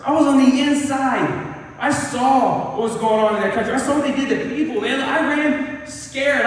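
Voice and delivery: a lightly voiced frightened Moses; pleading Moses. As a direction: beg your way out of the task. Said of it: "He's like".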